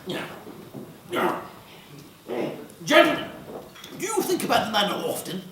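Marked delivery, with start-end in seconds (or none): 2.8-5.4 high, fast society hostess; hammed-up upper-class hostess; posh host voice. Hammy murder mystery party.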